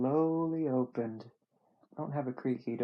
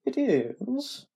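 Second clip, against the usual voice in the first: higher-pitched dying Southerner; dying Southern man; 10 semitones higher, 4 dB louder than usual. Acted. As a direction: play an ailing Southern man. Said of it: "like a dying Southern man".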